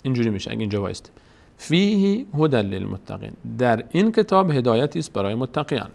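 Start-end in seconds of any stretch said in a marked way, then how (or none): 1.6-3.3 Quranic recitation. Shown as a demonstration. Reciting the verse before translating.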